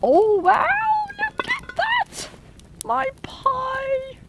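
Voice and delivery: thrilled and delighted; excited. Real, not acted. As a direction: gush over the finished pie. Pie comes out of the fire.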